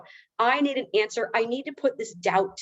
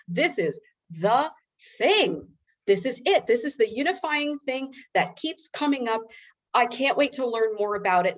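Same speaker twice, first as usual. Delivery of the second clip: the eureka moment, growing excited; excited discovery; 3 semitones higher than usual. Real, not acted. Recalling finding the article that named her OCD, with real excitement.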